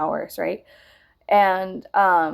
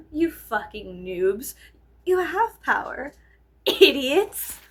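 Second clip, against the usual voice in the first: exaggerated mockery; 5 semitones higher, slower than usual. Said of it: "I'm exaggerating".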